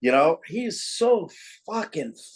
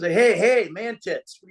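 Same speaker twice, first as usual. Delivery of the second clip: teasing call; 5 semitones higher, slower than usual. Retold or imitated. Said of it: "he goes".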